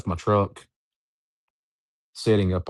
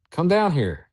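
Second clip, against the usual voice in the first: higher-pitched beckoning call; retold eerie summons, pitched up; voice from below; 9 semitones higher than usual. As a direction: imitate something calling you down. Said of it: "and they said".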